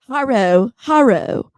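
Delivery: put-on Valley girl. Shown as a demonstration. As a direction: say "Haro" like a hammed-up Valley girl. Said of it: "say it like a Valley girl".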